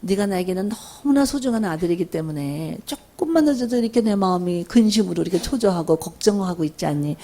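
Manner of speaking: soft, gentle confession of worry; quietly earnest parent explaining concern; sincere, heartfelt. Shown as a demonstration. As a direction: open up tenderly to a beloved child. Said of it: "그러면 좀 진솔하게".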